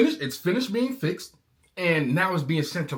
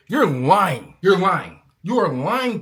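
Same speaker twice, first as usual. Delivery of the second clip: louder, firm angry call-out; angry accusation; 6 dB louder, slower than usual. Real, not acted. Calling out the dealer, loud angry accusation. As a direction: call them liars to their face.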